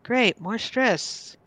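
slow, dragging sarcasm; mock enthusiasm, slow and weary; sarcastic. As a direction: drawl out a glum great. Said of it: "I'm like".

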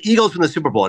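retold interviewer's question; Howard Stern. Radio host offering a movie star options, lightly imitated questioning. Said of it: "Howard Stern said".

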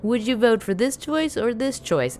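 high, pleading, asking everyone; anxious pleading. Retold or imitated. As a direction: beg friends to pick for you. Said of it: "ask their opinion about, like".

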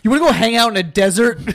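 fast, laughing question. Real, not acted. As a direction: giggle through it. Laughing while joking.

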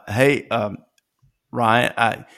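a hammed-up, stammering imitation of the actor; over-the-top Matt Saracen impression. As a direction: fumble every word like a nervous teen actor reading a cameo. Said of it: "did Matt Saracen's cameo to you kinda sound something like this".

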